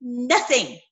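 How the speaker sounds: loud scolding Jesus quote; stern rebuke. Acted. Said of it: "he is saying".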